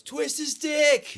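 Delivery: high, drawn-out heckler's yell; imitated yell. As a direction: imitate a guy hollering it. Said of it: "this guy that just yells".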